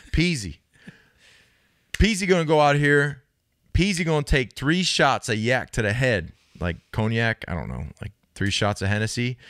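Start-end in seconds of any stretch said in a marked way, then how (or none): 0.1-6.3 hype-man pregame boast, pitched up; hyped third person. Retold or imitated. Joey hyping the team before the game, boastful. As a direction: pump up the room like Joey, louder and higher. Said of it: "he's talking in third person".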